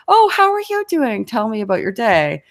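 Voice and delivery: hammed-up keen neighbour; exaggerated eager interest. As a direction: swoop up like you can't wait to hear. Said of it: "I was exaggerating it in my example".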